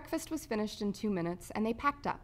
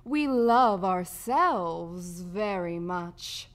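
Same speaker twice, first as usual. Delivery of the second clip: slow, drawn-out, louder smug drawl; smug, lazily savored boast; smirking rat; 6 dB louder, much slower than usual. A narrator's reading. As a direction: stretch it out with oily self-satisfaction. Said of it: "said Riprid with a smirk".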